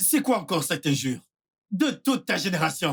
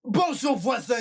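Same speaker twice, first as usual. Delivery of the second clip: higher-pitched model greeting to a neighbour; 6 semitones higher than usual. Shown as a demonstration. Showing how to greet a neighbour, high demo greeting. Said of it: "c'est comme ça".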